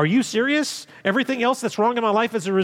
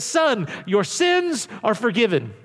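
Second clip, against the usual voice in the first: slow deliberate quote; slower than usual. Shown as a demonstration. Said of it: "and he says".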